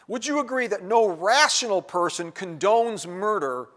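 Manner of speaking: slow down and lean on "rational"; emphasis on rational. Shown as a demonstration. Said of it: "I emphasize the word rational".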